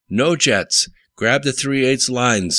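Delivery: high-pitched urgent instructions; squeaked reply. A narrator's reading. Kyle answers Dick with parts orders, in a mild squeak. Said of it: "squeaked Kyle".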